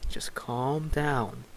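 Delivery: calm someone down softly and slowly; hushed calming. Acted. Dunny soothing agitated Zane, hushed calming.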